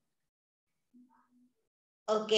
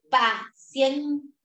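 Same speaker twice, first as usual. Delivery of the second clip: paciencia stretched slowly; slow it right down, patiently; long, patient paciencia; drawn-out plea; 3 semitones higher, much slower than usual. Real, not acted. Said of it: "teacher asking for patience".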